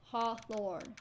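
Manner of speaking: struggling with Hawthorne in a put-on American accent; fake American accent. Shown as a demonstration. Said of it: "hard to say in, like, a fake American accent".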